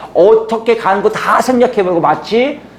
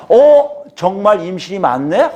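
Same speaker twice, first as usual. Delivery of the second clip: light startled aha; surprised realization. Retold or imitated. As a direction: sound struck by the discovery. Realizing the pregnancy is real.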